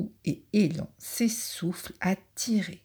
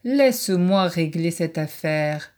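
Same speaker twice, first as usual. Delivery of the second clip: proclaiming badger; 5 dB louder than usual. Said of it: "clame le blaireau".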